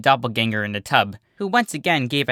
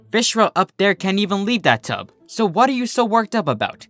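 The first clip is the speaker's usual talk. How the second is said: higher, casual and teasing; Berry Shine, unbothered; 5 semitones higher than usual. Acted. Berry Shine on the couch mocks the pacing pair. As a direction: brush off the panic.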